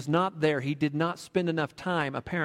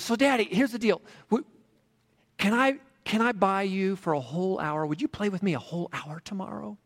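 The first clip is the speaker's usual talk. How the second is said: put-on hopeful little boy; 5 semitones higher than usual. A narrator's reading. Boy offers to buy dad's hour.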